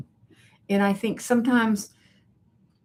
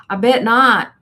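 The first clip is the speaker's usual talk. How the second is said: louder, higher punchy I bet not; emphatic agreement; 4 semitones higher, 8 dB louder than usual. Real, not acted. Answering a viewer's neck fan warning, emphatic and loud. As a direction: land it with a knowing laugh in the voice.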